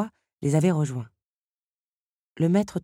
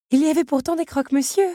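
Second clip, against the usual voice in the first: higher, louder teapot voice, a touch mysterious; 12 semitones higher, 6 dB louder than usual. A narrator's reading. Madame Samovar arguing with the Beast, lightly mysterious. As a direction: argue it like a secret. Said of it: "argumenta mystérieusement Madame Samovar".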